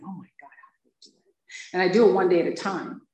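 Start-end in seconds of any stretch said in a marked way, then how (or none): 0.0-1.1 overwhelmed. Retold or imitated. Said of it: "I was like".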